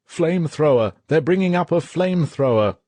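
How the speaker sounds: high, loud alarm shout; yelled warning. Acted. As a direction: yell the warning from the peephole. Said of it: "Suddenly he yelled".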